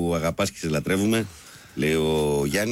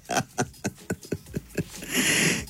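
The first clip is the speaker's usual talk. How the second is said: breathy chuckle; 6 semitones higher, 4 dB quieter than usual. Real, not acted. Laughing after a message.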